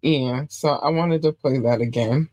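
chewing gum while talking; talking around a piece of gum; mouth full. Real, not acted. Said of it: "I do have gum in my mouth".

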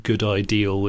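"good ideal" with an L ending; Bristolian final L. Shown as a demonstration. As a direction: sound a clear L at the end of "ideal". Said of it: "they obviously have a very strange, um, vernacular".

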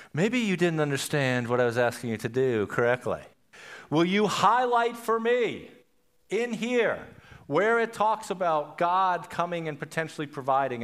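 mildly theatrical courtroom questioning; dramatic trial lawyer. Acted. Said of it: "you'd be a little dramatic".

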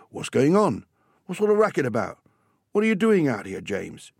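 loud, high-pitched cross dad; angry father demanding an explanation; really cross. Acted. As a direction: burst out crossly, dropping on the final name. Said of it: "he sounded really cross".

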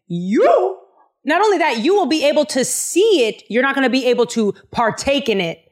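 sassy prophet, starting high and settling down; spicy comeback. Retold or imitated. Elisha answering the doubting captain, sharp and sassy. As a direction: snap it back with sass, peaking on "You". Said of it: "talked that spicy, that spicy".

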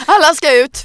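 mock bouncer order. Host plays the bouncer throwing out partygoers, mock yell. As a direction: bark everyone out, hammed-up.

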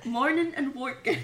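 "Morning and working" with both final g's dropped, amused. Shown as a demonstration. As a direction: drop the g's, Irish-style, on "Morning and working". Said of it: "Drop your G's".

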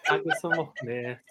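practising a Scottish accent; Scottish accent warm-up. Shown as a demonstration. Actor getting into character, practised Scottish accent. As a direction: test the Scottish accent on set words. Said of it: "Let me just get into character".

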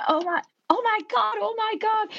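high-pitched flustered squeal; retold alarm, voice shooting right up; panicked repeats in a squeaky pitch; mock panic. Acting panic after throwing drink.

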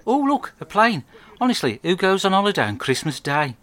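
high, loud fake astonishment at the sky; hammed-up look over there voice; feigned surprise. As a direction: sell the decoy, play it up. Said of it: "looks up at the sky and says".

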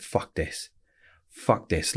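half-whispered curse under the breath, retold; muttered despair. Alone in a cell, a retold despairing whisper. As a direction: breathe it out quietly, like giving up. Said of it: "I went".

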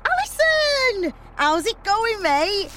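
loud, high, drawn-out hail; excited greeting. Acted. Organiser greeting best mate on the bus, shouting excitedly. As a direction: yell the name in delight.

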